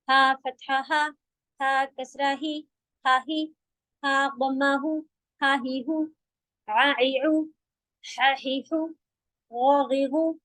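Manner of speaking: हमजा फतहा आ read with short, unstretched vowels; short vowel drill. Shown as a demonstration. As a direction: spell then join, keep range small. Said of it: "तो ये fast होने हैं".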